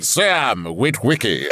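slow mock-solemn robot delivery; put-on Transformers voice. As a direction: draw the name out like a cartoon robot. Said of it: "going to use that voice?".

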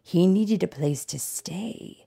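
measured, expressive read-aloud with drawn-out key words; storybook narration. A narrator's reading. Tiger telling a child his life story, storybook narration. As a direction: read it like a picture book, savoring words.

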